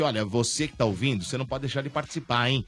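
enthusiastic radio commercial pitch; ad read. Acted. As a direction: hype it up for listeners. Sponsor ad read to listeners.

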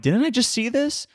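high-pitched incredulous question; mock disbelief. Acts out his puzzled reaction to repeats.

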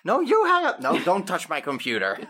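high, soft and giggly; giggly late night call. Real, not acted. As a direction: tease through stifled giggles. Playful fight over hanging up.

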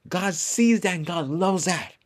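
hushed whisper. Real, not acted. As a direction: drop to a breathy whisper. Sudden hush within sermon.

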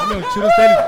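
cracking up at the demand; laughing squeal. Retold or imitated. Narrator repeats robber's demand while laughing, high and loud.

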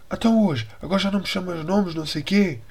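high, taunting jab; mocking driver. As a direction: rub it in with mock sarcasm. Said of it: "a mulher vira-se".

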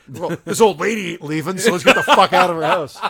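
chuckling through a mock line; laughing. Voicing the killer, laughing.

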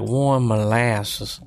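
slow, stretched drag on warm; drawn out. Shown as a demonstration. Repeating the molasses line to friend, slow drawl. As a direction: stretch warm like thick syrup. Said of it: "you gotta drag it out".

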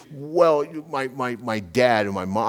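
mock flustered stammer; lost, floundering. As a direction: stumble over the words as if lost for an answer. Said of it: "he's lost".

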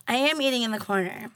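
talking with food in mouth; mouth full. Real, not acted. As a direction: say it while chewing. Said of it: "I can hear it".

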